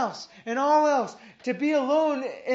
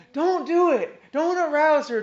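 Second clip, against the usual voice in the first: urgent warning; 5 semitones higher, 6 dB louder than usual. Acted. Christ warns disturbers.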